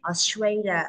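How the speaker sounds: "Australia" with a clear s in the middle; sounded middle S. Shown as a demonstration. Teacher points out a sound, "Australia" with clear middle s. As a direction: bring out the s inside "Australia". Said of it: "Có chữ sờ ở giữa này".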